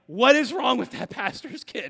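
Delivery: mock horrified, offended lady voice. Telling a story about an older lady in the nursery: imitating a horrified, offended lady. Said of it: "equal parts horrified and offended".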